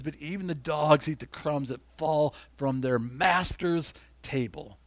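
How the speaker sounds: slow, deliberate, humble reading; slow and plain. Shown as a demonstration. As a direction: let every word land simply and slowly. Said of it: "she says very plainly".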